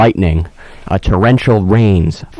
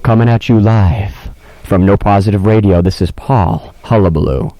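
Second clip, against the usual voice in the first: a hint of a lower on-air voice; radio host voice; 3 semitones lower than usual. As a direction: play the smooth DJ lightly. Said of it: "I sound like a real on-air personality".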